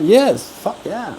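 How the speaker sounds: high excited cheer; excited yes. Retold or imitated. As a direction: cheer at the good news. Excited about invitation.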